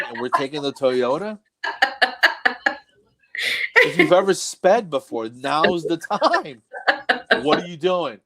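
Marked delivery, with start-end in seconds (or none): 3.8-8.2 higher, with "now's the time" dragged out; mock-urgent backseat nagging; exasperated urging. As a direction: plead comically with a too-careful driver. Acted urging son to drive faster.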